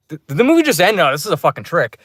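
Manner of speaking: retold startled protest, quick finish; surprised. Moviegoer reacts as the film suddenly ends, surprised. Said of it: "I was really surprised".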